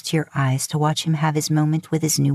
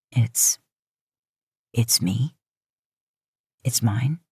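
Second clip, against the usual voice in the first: a lightly lowered, halting man's voice; Dean in shock; 5 semitones lower, slower than usual. A narrator's reading. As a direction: stammer it out, stunned.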